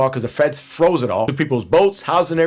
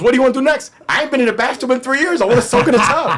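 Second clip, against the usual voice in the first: retold voices; 10 semitones higher than usual. Girl and himself quoted.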